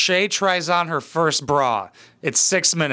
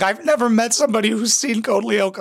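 high, mock-weepy girl's voice; lightly imitating a crying girl at a party; teary party girl; 6 semitones higher than usual. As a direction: whimper it like a moved drunk stranger. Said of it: "She started crying".

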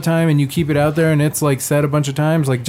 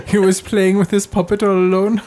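laughing; 6 semitones higher than usual. Real, not acted. Joking about the Pompeii mummy.

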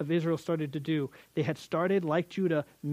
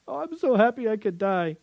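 mock overjoyed Jacob; 5 semitones higher, 3 dB louder than usual. Mocking Jacob's overjoyed exclamation.

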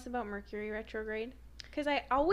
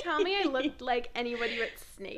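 fishing for compliments. Pretend. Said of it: "fishing for compliments".

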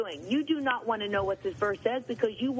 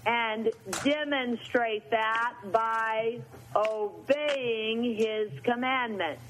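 scripture reading; slower than usual. Acted. Slow scripture recitation.

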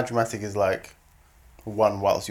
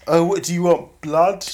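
louder exasperated sarcasm; mock exasperation; 6 semitones higher, 4 dB louder, slower than usual. Husband mimicking wife's fake apology, exasperated. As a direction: throw it back, fed up. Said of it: "That was not a genuine apology".

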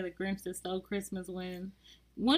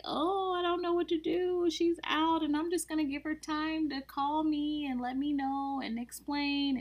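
higher-pitched imitation of an upset husband; mock upset; 7 semitones higher than usual. Retelling the husband's reaction to her being out, mock upset. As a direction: mimic his helpless fretting in a raised voice. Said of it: "So he's all upset and".

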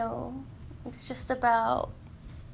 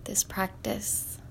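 whispering; 6 dB quieter, slower than usual. Real, not acted. Soft closing to viewers.

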